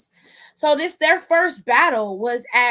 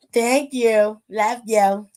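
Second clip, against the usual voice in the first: louder thanks; 6 dB louder, much slower than usual. Real, not acted.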